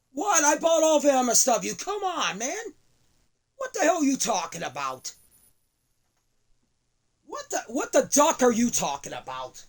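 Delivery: stunned indignation; shocked outrage. Acted.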